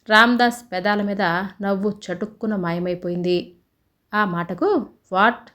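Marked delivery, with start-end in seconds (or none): 5.1-5.5 a quick startled what; surprised. Acted. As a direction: caught off guard, asking back. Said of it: "ఆశ్చర్యంగా అన్నాడు". (ఆశ్చర్యంగా)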